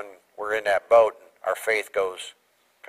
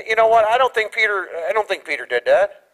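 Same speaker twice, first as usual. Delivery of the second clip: normal talking voice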